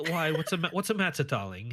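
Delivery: mock Bridgerton posh British accent; posh English accent. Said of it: "I started talking all posh".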